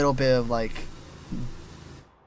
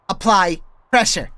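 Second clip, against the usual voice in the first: rising into a tight higher voice; higher pitch; 4 semitones higher, 6 dB louder than usual. Shown as a demonstration. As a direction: squeeze up a bit higher. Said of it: "that little bit of higher pitch I did there".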